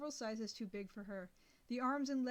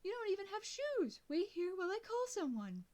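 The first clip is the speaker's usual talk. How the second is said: higher, fussing dog-walker lady; lady rushing to a hurt girl, higher and doting; concerned lady; 10 semitones higher than usual. A narrator's reading. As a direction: coo over her like a worried stranger. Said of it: "She removed one of the earphones".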